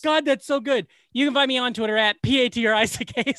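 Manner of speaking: barely holding back laughter; after laughing hard. Real, not acted. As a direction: plug read through giggles. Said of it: "I can't stop".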